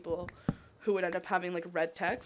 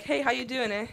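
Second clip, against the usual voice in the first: higher caricature of chatty Canadian greeting; mock conversational "eh"; 4 semitones higher, 4 dB louder than usual. Shown as a demonstration. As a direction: greet brightly in parody, ending on "eh". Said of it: "like a conversational manner".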